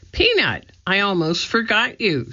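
high, cooing to a pet; high little-girl concern, lightly voiced; fond fussing. A narrator's reading. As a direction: coo apologetically to a tiny pet. Annie fussing over forgotten mouse.

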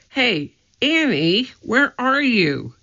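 high, slow call down the hallway; boy calling for his sister in an empty hall. A narrator's reading. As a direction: stretch the words to reach far.

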